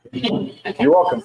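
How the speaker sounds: high, drawn-out, playful "you're welcome"; mock-gracious. Host offering another shirt slogan, playfully mock-gracious. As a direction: sing it out slowly, pleased with your joke.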